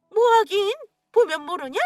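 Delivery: father retorting to his daughter-in-law, loudly. Acted. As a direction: snap it back.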